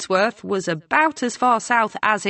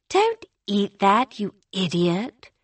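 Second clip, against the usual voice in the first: scornful; 2 semitones higher than usual. A narrator's reading. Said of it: "a little scornfully".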